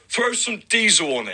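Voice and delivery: imitating dad. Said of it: "My dad".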